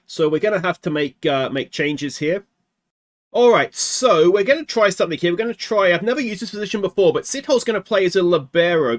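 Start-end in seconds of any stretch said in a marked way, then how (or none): 3.3-9.0 higher and louder, keen to try it; eager new plan. Real, not acted. Gamer announcing a new tactic, eager and loud. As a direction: pump yourself up for the change.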